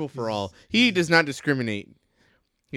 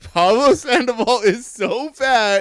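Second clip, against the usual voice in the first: loud joke setup; 10 semitones higher, 6 dB louder, slower than usual. Pretend. Yo mama style joke setup.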